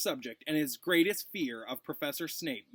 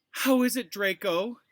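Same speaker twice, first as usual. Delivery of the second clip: higher, simpering and sweet; 7 semitones higher, 8 dB louder than usual. Acted. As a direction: coo it like a fawning girl. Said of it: "simpered Pansy Parkinson".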